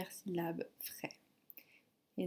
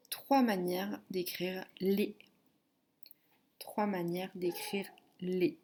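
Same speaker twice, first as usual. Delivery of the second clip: measured syllable dictation, target at the end. Shown as a demonstration. Teacher dictating syllables to a pupil, measured dictation delivery. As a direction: dictate it carefully, then repeat it. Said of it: "Je vais te dicter".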